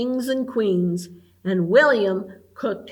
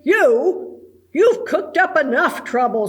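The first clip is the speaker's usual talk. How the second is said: laughing; 4 semitones higher, 4 dB louder than usual. Acted. Judy scolding William with a laugh.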